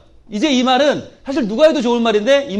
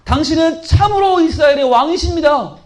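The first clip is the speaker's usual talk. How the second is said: confession; 5 semitones higher than usual. Acted. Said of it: "이렇게 고백을 합니다".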